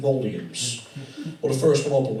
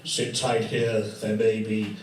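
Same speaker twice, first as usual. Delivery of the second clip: Captain Mainwaring voice; 3 semitones lower, slower than usual. Retold or imitated. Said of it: "Mannering would show to Pike".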